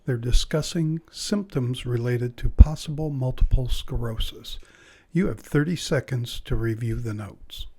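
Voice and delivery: clear, measured test-recording narration; exam announcer read. Acted. Announcer introducing the listening test to candidates, measured formal read. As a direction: set up the listening task neutrally and evenly.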